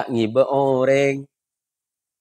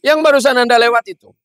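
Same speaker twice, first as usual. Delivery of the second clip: stern policeman; 8 semitones higher, 5 dB louder, much faster than usual. Acted. Policeman scolds driver.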